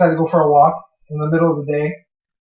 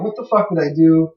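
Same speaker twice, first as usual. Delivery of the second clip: panicked self-quote. Retold or imitated. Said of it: "I'm tripping out. I'm like".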